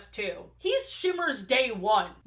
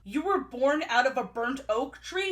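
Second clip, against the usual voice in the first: hyping her up. Retold or imitated. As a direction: imitate excited parents piling up coincidences. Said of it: "they are hyping her up".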